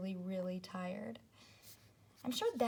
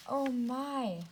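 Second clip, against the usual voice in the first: a touch of storybook alarm; light dramatic surprise; mock alarm; 5 dB louder than usual. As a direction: exclaim it for the kids. Bird swooping on Zoe.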